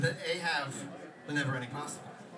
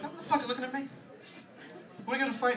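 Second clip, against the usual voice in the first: put-on drunk ghetto girlfriend; 10 semitones higher, faster than usual. Drunk ex-girlfriend at the bar, shrill mock challenge. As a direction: pick a bar fight in her voice. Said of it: "she'd be like".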